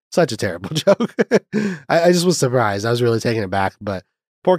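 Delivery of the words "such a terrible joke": a laugh breaking into the word joke; laughing at own joke. Real, not acted. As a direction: chuckle mid-line at your own bad joke.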